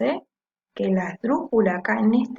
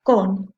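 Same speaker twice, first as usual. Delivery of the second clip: "Con" said firmly on its own; stressed syllable; 2 semitones lower, 4 dB louder than usual. Shown as a demonstration. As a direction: isolate "Con" as the strong syllable. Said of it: "la que suena con mayor fuerza".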